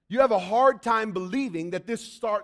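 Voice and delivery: ordinary talk, nothing marked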